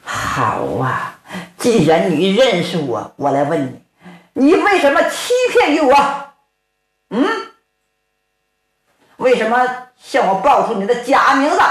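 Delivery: a hint of an old master's angry reproach, rising on the question; lightly voiced elder demanding why he was lied to; reproachful old man. Old man accuses the bandit. (老者带怒质问)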